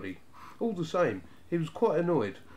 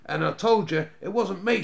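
indignant retort; 6 semitones higher, 7 dB louder than usual. A narrator's reading. Youngest retorts to brother.

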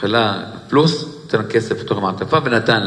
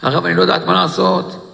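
higher, stretched-out plea of a weeping widow; tearful lament; 4 semitones higher than usual. Retold or imitated. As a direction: draw out each cry to the rabbi, lightly acting the weeping. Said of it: "והתחילה לבכות ולבכות".

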